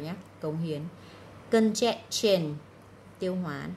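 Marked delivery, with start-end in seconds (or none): 1.5-2.5 "Congestion" with -tion said as "chun"; slow "Congestion", clear ch in the ending; ch sound in -tion. Shown as a demonstration. Teacher sorting sounds for students, "Congestion" with a ch ending. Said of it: "Ba âm này là ba âm trừ".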